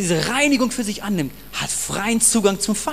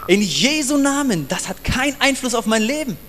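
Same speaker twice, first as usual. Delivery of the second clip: firm rebuke; 5 semitones higher than usual. Retold or imitated. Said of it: "Und ich sage".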